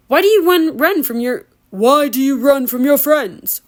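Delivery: a light, lightly voiced sweet lure; sweet ogre voice. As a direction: coax them back gently, lightly voiced. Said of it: "It was the sweetest voice I'd ever heard".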